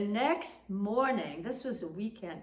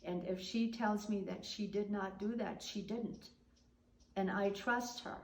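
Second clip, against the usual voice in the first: soft, steady and calm; calm a nasty neighbour without rising; 5 dB quieter than usual. Retold or imitated. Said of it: "my mother stayed very calm".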